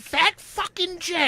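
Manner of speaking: slow, drawn-out accusing tone; slow mock accusation. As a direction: spell out the blame slowly. Sister naming the culprit.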